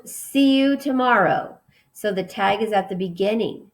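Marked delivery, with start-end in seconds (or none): 0.1-1.6 higher, lightly called out; a teacher's light mock yell; mild yell. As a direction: call it out as if waving goodbye. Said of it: "she yelled".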